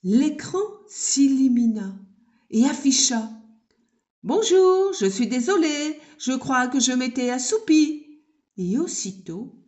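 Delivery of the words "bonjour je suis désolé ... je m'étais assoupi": waking computer. Acted. Computer wakes up speaking.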